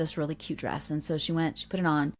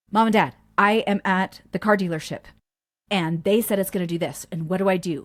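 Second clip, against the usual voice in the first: louder, mock-frantic call for help; freaking out; 5 dB louder than usual. Adult child calling parents about his car, freaking out. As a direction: imitate a mildly panicked grown child. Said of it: "adult child called freaking out".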